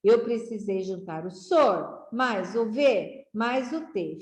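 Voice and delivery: sor, ve, te set apart; teacher splitting sorvete into syllables. Shown as a demonstration. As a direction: sound out sorvete piece by piece. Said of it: "Para juntar".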